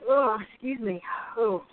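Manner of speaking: yawning mid-sentence. Real, not acted. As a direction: talk through a yawn. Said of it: "pardon my yawning".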